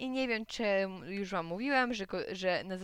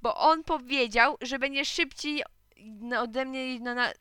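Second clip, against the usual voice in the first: high, indignant complaint; raised, whining protest; shouting; 4 semitones higher, 7 dB louder than usual. A narrator's reading. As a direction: tattle loudly on the other boy. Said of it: "krzyknął Gottfried".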